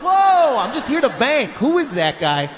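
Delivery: startled. Retold or imitated. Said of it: "Everyone's like".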